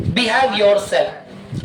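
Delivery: "behave yourself" drawn out slowly; slow model reading. Shown as a demonstration. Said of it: "जैसे मैंने कहा". (धीरे-धीरे आदर्श उच्चारण)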